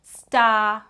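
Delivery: Star sung out high and loud; emphasized rhyme word. Shown as a demonstration. Showing a parent which rhyming word to stress. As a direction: lean on Star as the rhyming ending. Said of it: "the thing that we emphasize more".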